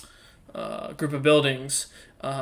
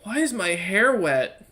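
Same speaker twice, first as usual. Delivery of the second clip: groggy confusion; 3 semitones higher, 3 dB louder, slower than usual. Acted. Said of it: "gets up groggily ... and goes".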